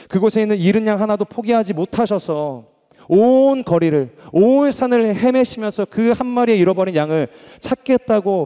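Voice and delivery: loud, high and urgent, pressing every phrase; fervent preaching. Real, not acted. Pastor to congregation about the lost sheep, loud fervent preaching. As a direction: cry out how far he searched for one lost sheep.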